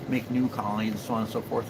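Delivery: ordinary talk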